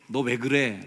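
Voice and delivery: a touch of loud reproach; scolding. Acted. Preacher quotes the scolding Jesus does not give, mild loud rebuke. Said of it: "야단치시지 않고".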